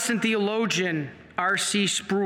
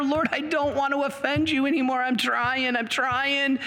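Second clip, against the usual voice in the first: higher, earnest plea to the Lord; earnest prayer; 6 semitones higher than usual. Retold or imitated. Sinner to God, earnest higher plea. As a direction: plead sincerely, pitched up.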